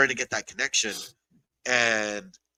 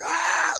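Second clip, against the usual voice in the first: drawn-out "aah" yell at moderate volume; mock yell, held long; imitated battle yell. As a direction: mimic a fighter's yell mid-swing. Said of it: "like, yelling".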